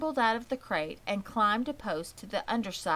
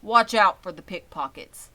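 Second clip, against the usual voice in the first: louder, a father cautioning; 10 dB louder than usual. A narrator's reading. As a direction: warn them like a careful dad. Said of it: "cautioned their father".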